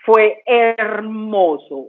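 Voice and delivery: lento, alargado y emocionado; estírelo con emoción sincera; emocionada. Real, not acted. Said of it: "emoción tras contar el milagro". (fue hermoso dicho despacio y conmovido)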